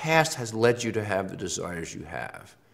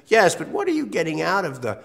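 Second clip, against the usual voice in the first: probing analyst; 4 semitones higher than usual. Retold or imitated. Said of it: "the psychoanalyst question is".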